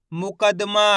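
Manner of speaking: मुकदमा split as मु-क-द-मा; syllable-by-syllable reading. Shown as a demonstration. Teacher blends letters for learners, syllabic मुकदमा. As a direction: measure out each syllable of मुकदमा. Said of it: "एक एक अक्षर का उच्चारण".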